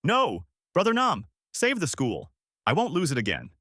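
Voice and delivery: high, desperate narrated scream. A narrator's reading. Woman pleading to save the school, high desperate cry.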